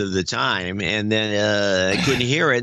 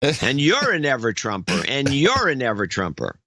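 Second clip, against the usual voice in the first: Oprah impression; 4 semitones higher than usual. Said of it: "it's like Oprah".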